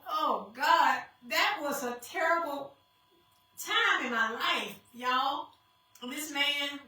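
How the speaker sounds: crying. Real, not acted. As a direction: voice breaking with real tears. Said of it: "she's crying".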